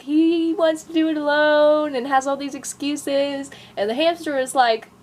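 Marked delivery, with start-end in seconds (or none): 0.0-1.9 mock cat excuse. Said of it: "And the cat is like".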